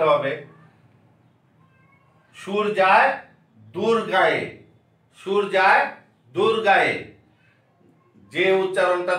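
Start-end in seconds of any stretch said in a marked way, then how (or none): 2.3-6.9 "গায়ে" said with a nasal vowel; nasal chandrabindu demo. Shown as a demonstration. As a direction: give "গায়ে" a light nasal sound. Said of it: "একটু নাকে আসবে".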